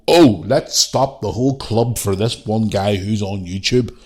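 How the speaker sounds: a hint of a pompous official; slow mock-serious club voice. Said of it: "they're gonna go".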